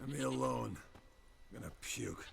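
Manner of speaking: slurred, queasy groan; sick from drinking, mumbling; drunk and nauseous. Acted. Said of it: "Got sloshed, stewed".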